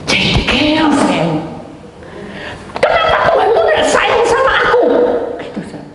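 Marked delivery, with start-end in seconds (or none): 2.8-5.8 high, loud wailing complaint to God; tearful outcry. Retold or imitated. Retelling a woman's tearful outburst at God, high and loud. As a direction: cry out the woman's hurt at God, pitched high. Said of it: "Sampai nangis".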